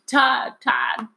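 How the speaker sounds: high, breathless plea, imitated; mock overheard mother. Retelling what mother said at night, mock breathless plea. Child overhears parents in bed.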